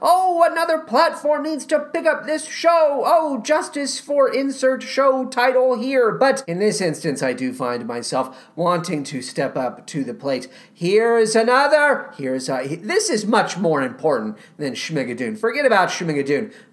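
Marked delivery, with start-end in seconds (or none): 0.0-6.1 high, mock fussing fan outcry. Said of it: "make a big fuss about".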